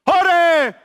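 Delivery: high, loud overdone shout; forced cheer. Acted. Saul forces a big cheer in front of the people.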